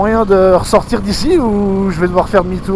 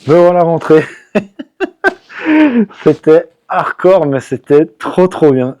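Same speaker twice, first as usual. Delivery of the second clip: laughing relief; 3 semitones lower, slower than usual. Real, not acted. Home safe after the ride.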